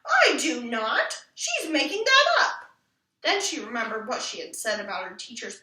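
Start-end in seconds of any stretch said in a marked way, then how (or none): 0.0-2.7 high, loud indignant denial; indignant protest. Acted. Ramona denying she shows off, indignant and loud. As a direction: flare up at the unfair charge. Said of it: "Ramona was indignant".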